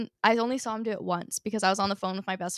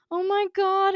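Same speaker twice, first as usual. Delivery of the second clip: high and louder, delighted and stunned; excited gasp; 10 semitones higher, 6 dB louder, slower than usual. Retold or imitated. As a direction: imitate a star overjoyed to see a fan. Retelling Ben's excited greeting.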